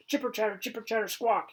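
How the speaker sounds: high, loud chattering squirrel screech. Acted. Squirrel screeches at the dog to taunt him, high chattering squawk. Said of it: "he screeches again".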